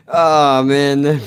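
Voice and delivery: excited exclaim. Real, not acted. Reacting to a Texas viewer.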